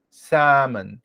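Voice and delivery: Salmon with a silent L, said samon; model pronunciation. Shown as a demonstration. Teacher models the correct English word for students, slowly and clearly. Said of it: "como é a forma correta de pronunciar essa palavra".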